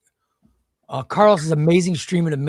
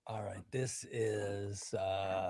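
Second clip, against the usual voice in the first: whispering; 8 semitones lower, 16 dB quieter, much slower than usual. Real, not acted. Reading the winner's name.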